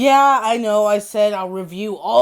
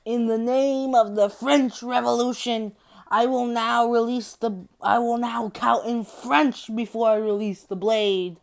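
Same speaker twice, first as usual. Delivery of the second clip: mock proclamation; 3 semitones higher than usual. The speaker's ceremonial proclamation.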